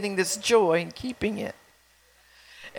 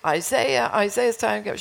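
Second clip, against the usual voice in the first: mild retold yell; 3 semitones higher than usual. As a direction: imitate a parent calling a sleeper, half-strength. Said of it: "I kept yelling".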